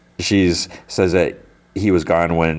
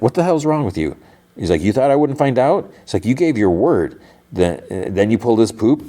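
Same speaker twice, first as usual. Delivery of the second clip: higher-pitched retold scolding; mock indignation; 4 semitones higher than usual. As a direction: confront him indignantly, without really shouting. Acted angry confrontation at the firm.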